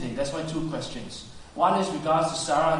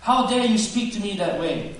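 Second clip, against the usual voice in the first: indignant judge; 4 semitones higher, 5 dB louder than usual. Acted. God as judge rebuking Sarah's doubt, indignant. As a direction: thunder it as an outraged judge. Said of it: "huge judge and says".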